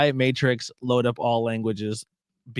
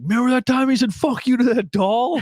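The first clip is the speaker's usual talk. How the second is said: laughing mock gossip; 12 semitones higher than usual. Retelling gossiping people.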